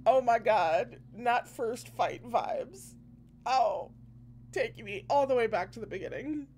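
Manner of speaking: high, gushing fan delight; real excited reaction. Real, not acted. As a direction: burst out of the reading, thrilled. Reader breaks off to react delightedly.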